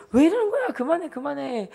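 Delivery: high-pitched mock irritation of a pestered mother; acted annoyed protest. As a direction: squeal in exasperation, then tell them to stop.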